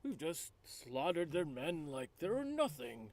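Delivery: very high start, soft and airy; earnest peacemaker. Acted. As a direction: delicate put-on voice making a point. Player voices own character.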